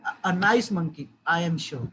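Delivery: sarcastic. Shown as a demonstration. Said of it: "replied the wife with obvious sarcasm".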